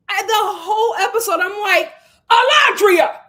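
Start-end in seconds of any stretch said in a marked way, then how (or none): 2.3-3.2 higher, loud mock wail; exasperated shout. Viewer yelling at a deluded contestant, exasperated shout. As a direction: cry out as if to shake someone awake. Exasperated wake-up call to Alondria.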